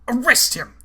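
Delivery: frightened coward shouting for arrest. A narrator's reading. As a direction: yell it in panic, pointing a finger. Fisk yells accusing Archer.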